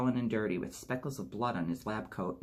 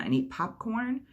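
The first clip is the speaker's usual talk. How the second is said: much higher, slow and louder; dreamy excitement; 12 semitones higher, 4 dB louder than usual. A narrator's reading. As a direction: savor the treat idea. Excited girls about Boston trip.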